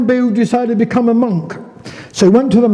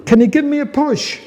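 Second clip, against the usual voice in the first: put-on lightly slurred drunk stranger, pitched up; a hint of a tipsy slur; 6 semitones higher than usual. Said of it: "slurred the stranger".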